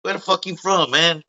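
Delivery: a lightly voiced brash comedian; mock Tracy Morgan bark. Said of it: "he's like".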